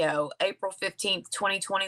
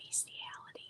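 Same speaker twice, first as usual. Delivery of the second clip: very quiet, hushed whisper under the breath; 25 dB quieter than usual. Revealing a disturbing charge in a case, whispering the word. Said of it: "I'm gonna whisper it".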